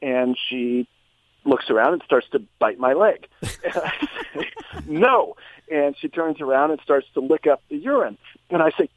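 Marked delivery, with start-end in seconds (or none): 4.9-5.3 stern no. Retold or imitated. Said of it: "sternly say".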